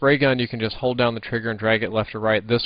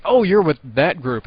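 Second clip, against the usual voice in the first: clerk voice; 5 semitones higher, 5 dB louder than usual. Retold or imitated. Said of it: "and they're like".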